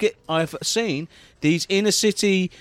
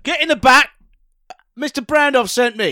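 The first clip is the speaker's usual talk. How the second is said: higher, louder barking driver; gruff taxi driver; 7 semitones higher, 5 dB louder than usual. Acted. Driver sent by Brandoff, loud and higher. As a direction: order the passenger in.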